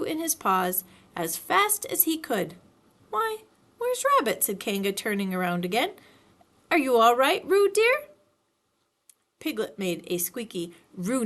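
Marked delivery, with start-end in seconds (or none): 3.1-4.4 lightly voiced high motherly Kanga; a hint of a motherly kangaroo; Kanga's voice. A narrator's reading. 6.7-8.1 lightly voiced high motherly Kanga; a hint of a motherly kangaroo; Kanga's voice. A narrator's reading.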